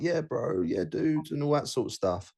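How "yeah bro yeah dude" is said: surfer dude. Retold or imitated. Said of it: "he talks like a surfer dude".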